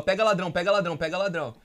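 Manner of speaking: imitating a street cry, repeated urgently; retold shouting. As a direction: shout 'stop thief', half-voiced. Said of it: "um senhor começou a gritar na rua".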